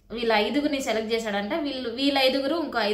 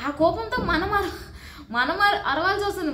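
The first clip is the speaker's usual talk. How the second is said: laughing; 5 semitones higher than usual. Real, not acted. Laughs while admitting anger.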